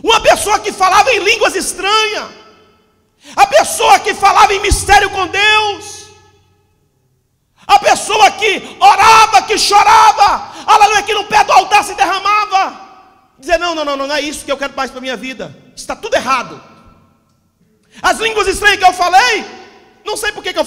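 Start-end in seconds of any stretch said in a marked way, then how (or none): 0.0-12.9 loud, rising sermon cry; preaching at full force. Acted. Pastor lamenting believers who once prayed and wept, fiery preaching. 13.6-16.6 quick, lower, dismissive mock voice; imitating an apostate. Preacher voicing a backslider turning away, quick mock dismissal. Voices believer rejecting faith.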